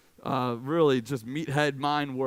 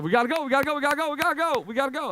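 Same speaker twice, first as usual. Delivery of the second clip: high, louder, pleading mom at the door; mock urgent mom; 8 semitones higher, 4 dB louder, much faster than usual. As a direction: hurry him out like an impatient mom. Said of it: "she's like".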